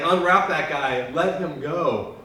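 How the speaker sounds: a hint of a commanding Jesus; mild mock command. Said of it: "Jesus is like".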